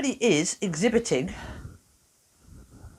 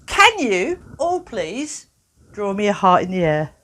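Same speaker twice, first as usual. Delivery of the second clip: slow instruction; 3 dB louder, slower than usual. Shown as a demonstration. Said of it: "instructing audience".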